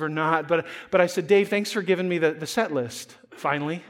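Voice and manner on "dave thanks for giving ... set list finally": passive aggressive. Retold or imitated. Pastor needling the late musician with a mock thanks. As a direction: let the thanks carry a little jab at the end. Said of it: "passive aggressive".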